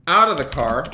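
loud order out of the car; barked order. Pretend. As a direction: bark it at the driver. Cop ordering driver out.

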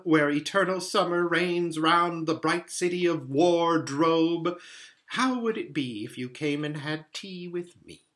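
lightly played faun making a formal invitation; lightly voiced courtly fawn. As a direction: address her grandly, drawing out the place names.

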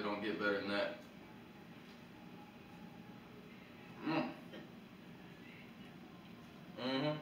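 humming while eating; chewing food. Real, not acted. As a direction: mouth full of sandwich. Seen 1: Head bowed over plate, sandwich held at mouth while humming.

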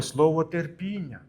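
слово терпіння drawn out slowly; slow down to spotlight слово терпіння; emphasis on терпіння. Shown as a demonstration. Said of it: "зверніть увагу".

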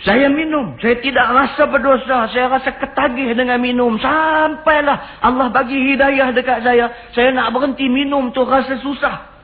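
high, insistent voice of a confessing youth; acted confession. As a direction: imitate a distressed young man confessing, pitched high.

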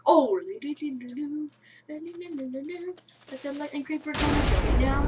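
loud startled cries; panicked yelp. Real, not acted. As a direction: yell as if it's about to blow you up. Lightning creeper appears, panicking.

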